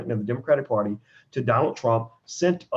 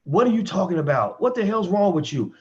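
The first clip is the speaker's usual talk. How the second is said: a touch of mock anger, higher; a man snapping at his partner, a bit raised; mock angry man; 5 semitones higher than usual. Abusive boyfriend reacting to her leaving, mildly mock angry. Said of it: "first he gets mad".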